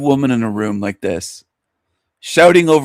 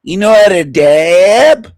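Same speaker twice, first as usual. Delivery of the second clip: slow, louder mock hick drawl; mocking trailer trash accent; 5 semitones higher, 5 dB louder, slower than usual. Mocking the woman's trailer trash accent, loud slow drawl. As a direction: ham up her twang with contempt. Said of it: "What kind of accent is that?".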